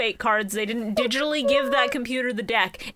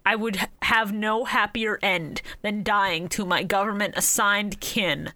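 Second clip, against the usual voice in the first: solemn dramatic; slower than usual. Retold or imitated. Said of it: "And Kaiba going".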